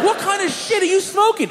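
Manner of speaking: high-pitched amazed question; incredulous. Retold or imitated. Incredulous question to stoned driver.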